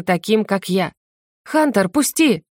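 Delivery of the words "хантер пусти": angry bark. A narrator's reading. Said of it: "рявкнула она зло".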